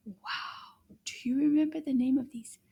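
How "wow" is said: mock awe. Seeing rhinos on screen.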